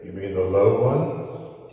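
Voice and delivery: deep put-on voice, rising to a question; low voice. Shown as a demonstration. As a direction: ask it way down low. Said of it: "that other voice that you did".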